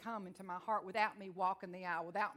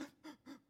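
gasp; 6 semitones higher, 13 dB quieter than usual. Retold or imitated. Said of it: "I'm like".

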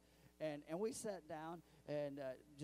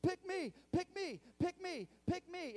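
much higher, louder squeaky pleading voice; eager talking shirts; 8 dB louder than usual. Pretend. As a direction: beg like a shirt desperate to be chosen. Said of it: "all my shirts go".

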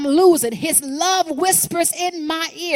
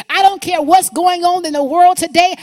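defiant preaching; 4 semitones higher, 6 dB louder than usual. Real, not acted.

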